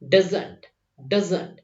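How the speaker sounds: "Doesn't" as two quick syllables, duz-nt; contracted doesn't. Shown as a demonstration. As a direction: run "does" into "n't" smoothly. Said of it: "short form में बोलना सीखते हैं". ("doesn't" को दुज़-न्ट बोलो)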